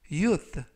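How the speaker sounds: "youth" again, falling; English word repeated. Shown as a demonstration. Teacher repeats "youth" for learners. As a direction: repeat "youth" clearly with a fall. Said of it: "youth라고 발음하시면 되겠고요".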